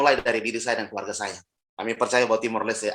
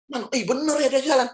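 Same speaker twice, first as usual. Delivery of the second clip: astonished; 12 semitones higher than usual. Retold or imitated. Pastor's astonished reaction.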